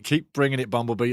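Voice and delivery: usual speaking voice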